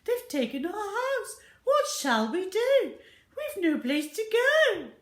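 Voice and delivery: high, loud, distraught; tearful wail. Acted. Missus Gregg laments to her family, high tearful wail. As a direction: plead through tears.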